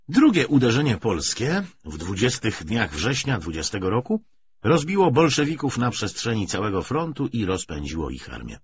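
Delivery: plain reading voice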